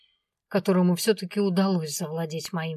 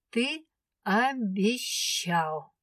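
drawn-out reproach; 3 semitones higher, much slower than usual. A narrator's reading. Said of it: "самый действенный аргумент".

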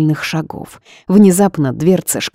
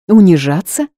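surprised; 4 semitones higher, 7 dB louder than usual. A narrator's reading. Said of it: "спросила я".

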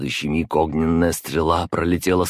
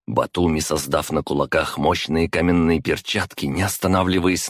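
ordinary delivery

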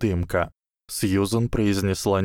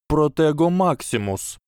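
shouted spell; 7 semitones higher than usual. Acted. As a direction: cast the shield spell sharply. Spell cast in alarm.

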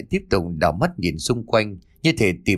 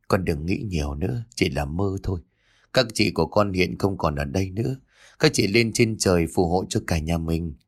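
tender comfort; 2 semitones lower than usual. Acted. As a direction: hush him gently. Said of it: "Bà Lụa xúc động ôm con trai".

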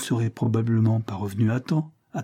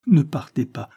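ne partez pas cried out louder, falling at the end; anguished plea; 4 semitones higher, 4 dB louder than usual. Acted. Isabel begging Levison not to leave, loud anguished plea. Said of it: "cria-t-elle avec angoisse".

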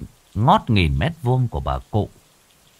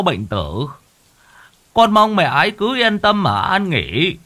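fake whimpering; 4 semitones higher, 4 dB louder than usual. Greedy son kneels at his mother's coffin, fake whimpering. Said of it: "rồi mếu mếu".

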